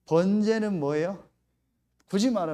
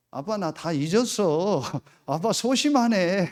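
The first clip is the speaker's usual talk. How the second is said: slow, laughing playful tease; lightly voiced daughter laughing it off; teasing daughter; 3 semitones higher, 6 dB louder, slower than usual.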